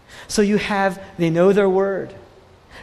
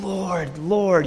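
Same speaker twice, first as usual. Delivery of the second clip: drawn-out, heartfelt cry to the Lord; a restrained imitation of tearful calling; emotional plea; 2 semitones lower than usual. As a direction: imitate a moved worshipper, each word lingering. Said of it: "they're, they're crying. They're emotional".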